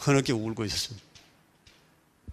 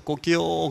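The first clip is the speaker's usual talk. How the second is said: rooster crow; 3 semitones higher, much slower than usual. Shown as a demonstration. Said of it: "그렇게 웁니다".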